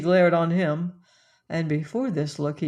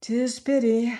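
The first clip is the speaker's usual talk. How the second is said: higher, stress on pity; higher lament; 5 semitones higher than usual. A narrator's reading. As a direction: lift and lean on pity. Repeated lament.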